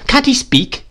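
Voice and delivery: high-pitched impatient question. A narrator's reading. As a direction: demand it in exasperation. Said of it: "cried my aunt impatiently".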